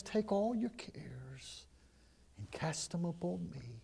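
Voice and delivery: soft, slow, whispered reassurance; tender whisper. Acted. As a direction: whisper God's invitation gently. Voicing God tenderly, whispered.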